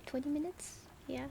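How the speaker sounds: sleepy voice after a nap; groggy, freshly woken up voice; just woke up voice. Real, not acted. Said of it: "this is my, um, I just woke up voice".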